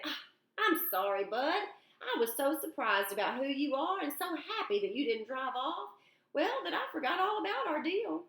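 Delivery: lightly voiced older man, sheepish and friendly; a hint of a cheerful old man caught out; older man apologizing to a boy, lightly voiced; apologetic older man.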